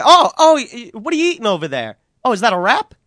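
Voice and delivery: lightly voiced smug manager; a hint of the smug skipper; Bobby Valentine voice. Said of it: "that's Bobby V. He's like".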